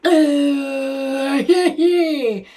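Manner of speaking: a man who just saw a miracle; nervous stunned stammer. Retold or imitated. Gideon stunned after the miracle.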